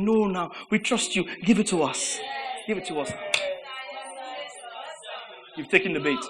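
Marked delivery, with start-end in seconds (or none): 0.0-3.1 soft inner voice. Retold or imitated. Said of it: "a part of you softly saying".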